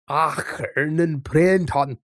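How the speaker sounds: drawn-out mock Scottish groundskeeper outburst; Willie from The Simpsons. Streamer imitating a cartoon character, Willie from The Simpsons. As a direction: growl out the foreign-sounding words slowly. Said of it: "Willy from, um, The Simpsons".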